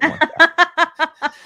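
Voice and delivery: high, slow laughing no; laughing refusal. Acted. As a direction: laugh it out, slowly.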